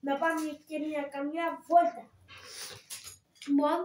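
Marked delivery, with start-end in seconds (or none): 0.1-2.0 lightly voiced eager friend; Hatzigavatis voice. Shown as a demonstration. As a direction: greet him like the fussy puppet friend. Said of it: "Και η φωνή". (ελαφριά φωνή Χατζηγαβάτη)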